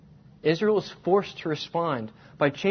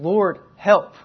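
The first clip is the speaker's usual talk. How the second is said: pleading cry; 3 semitones higher, 6 dB louder, much slower than usual. Retold or imitated. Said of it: "They're screaming".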